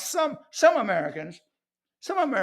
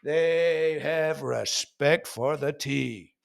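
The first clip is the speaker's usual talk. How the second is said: slow, reverent; much slower than usual. Acted. Mimicking posh respect for T.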